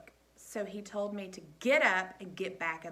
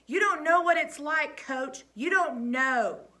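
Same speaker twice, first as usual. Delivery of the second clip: louder, higher tearful cry, slowing at the end; 6 semitones higher, 7 dB louder than usual. A narrator's reading. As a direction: hold back tears. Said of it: "stupid tears were welling up in my eyes".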